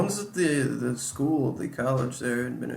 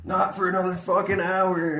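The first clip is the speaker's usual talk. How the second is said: grumpy reply; 7 semitones higher, 4 dB louder than usual. Retold or imitated. Woken brother answering his sister.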